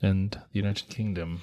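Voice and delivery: lightly put-on British accent. Host adding where they are going, British accent. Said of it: "bust out your British accent".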